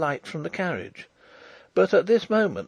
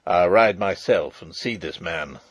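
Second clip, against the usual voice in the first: put-on lower-pitched, hasty old soldier; hastily; 6 semitones lower, 3 dB louder than usual. A narrator's reading. Marshal heading off the princess, hastily. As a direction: offer it quickly in a low voice. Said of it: "said Sapt hastily".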